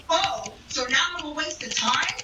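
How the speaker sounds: mock offended ex-boyfriend; stand-up retelling a breakup, hamming up the ex; back in character as the ex. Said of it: "let me get back into character".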